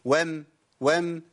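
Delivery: "وم" with a vowelless hummed ending; still meem. Shown as a demonstration. Teacher drilling the unvowelled meem, slow held "وم". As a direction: say "وم" slowly, closing on a briefly held m. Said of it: "الميم ساكنة".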